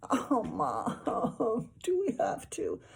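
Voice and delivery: put-on high, whining kid; whiny boy. A narrator's reading. Boy whining to his mom about babysitting.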